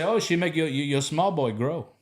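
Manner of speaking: a light Ghanaian tease; Ghanaian accent. Retold or imitated. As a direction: Ghanaian coworker teasing about marriage, in a Ghanaian accent. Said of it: "the way that he talked".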